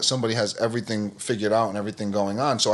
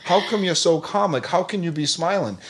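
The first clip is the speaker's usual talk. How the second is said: higher, lightly voiced friend in disbelief; a hint of a baffled coworker, half laughing; amazed coworker; 8 semitones higher than usual. Coworker reacts to yoga mat.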